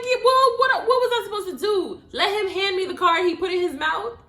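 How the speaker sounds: high, loud, fast defensive protest; indignant retort. Retold or imitated. Answering her friends who teased her, loud indignant retort. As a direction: defend yourself to your friends, fired up. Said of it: "I'm like".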